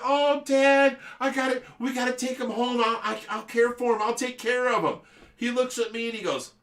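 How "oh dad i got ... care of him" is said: high mock child voice, loud start; pleading little kid. Kid begging Dad to save raccoon, mock pleading.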